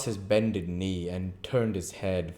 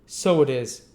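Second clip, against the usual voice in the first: agreeing Noah; 5 semitones higher, 7 dB louder than usual. Acted. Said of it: "acquiesced Mister Claypool".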